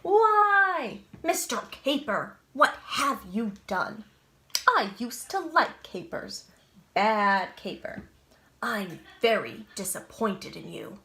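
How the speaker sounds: loud, cross scolding that settles at the end; upset adults scolding. Acted. Adults scolding Mister Caper for the sour kids, loud and cross. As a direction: scold him like disappointed grown-ups. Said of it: "are upset".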